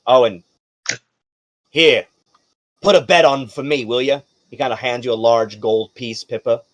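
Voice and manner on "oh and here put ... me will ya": emphatic doorman voice, loud at first and then settling; apologetic, cautioning guard. Acted. Casino guard letting Miss Loon through, emphatic and familiar. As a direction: explain yourself as an indulgent guard.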